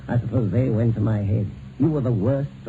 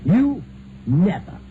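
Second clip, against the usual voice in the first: scornful disbelief; 5 semitones higher, slower than usual. Acted. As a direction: scoff at the very idea. Husband scoffs at wife's threat.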